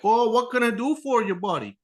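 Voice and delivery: high, overly friendly mock dealer voice; imitating a sugary salesman; chipper service guy. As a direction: play the cheery car-dealer greeter. Dealer greeting, mimicked.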